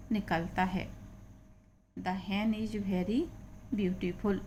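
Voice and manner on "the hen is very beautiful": slow, clear reading; slow reading aloud. Shown as a demonstration. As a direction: read word by word for the class. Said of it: "teacher reads slowly".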